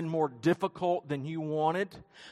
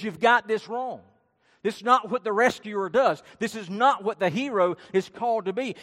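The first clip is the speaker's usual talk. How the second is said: raised, emphatic mock scolding; retold rebuke; 3 semitones higher, 4 dB louder than usual. Peter points his finger at Jesus, retold rebuke. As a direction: imitate a firm telling-off, punching the objections. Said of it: "and he rebuked him".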